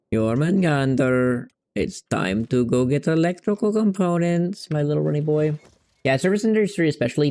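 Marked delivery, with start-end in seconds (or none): 0.1-5.6 slow, drawn-out mock-grand call; drawn-out silly announcement, rising higher; playful summoning call. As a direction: call your pet in a put-on voice, stretching the words. Playfully calling his game companion.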